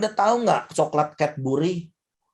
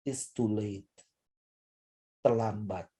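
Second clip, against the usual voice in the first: tearful; 8 semitones lower, 10 dB quieter than usual. Retold or imitated. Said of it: "Saya hanya dengan nangis".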